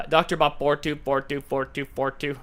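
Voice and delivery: flat, mechanical robot read. Shown as a demonstration. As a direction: read the numbers like a machine. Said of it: "I had to read it like a robot".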